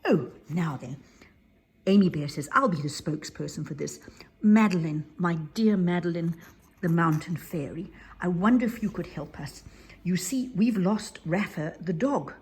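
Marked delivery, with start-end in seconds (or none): 2.5-12.3 formal little spokesbear. Acted. Amy Bear formal request.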